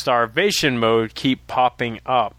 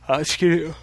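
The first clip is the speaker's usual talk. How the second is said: voice cracking; 5 semitones higher than usual. Real, not acted. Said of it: "Wow, Kev".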